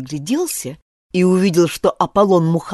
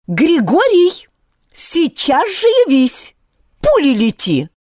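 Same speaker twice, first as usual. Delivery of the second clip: loud, high call from afar; 8 semitones higher, 4 dB louder than usual. A narrator's reading. Uncle Fedya calls Grishka home, loud call. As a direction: summon the boy home at once.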